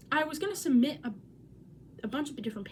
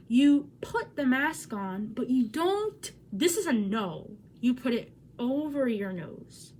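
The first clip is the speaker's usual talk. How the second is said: instructive; 4 dB louder, slower than usual. Shown as a demonstration. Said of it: "teaching mask wearing".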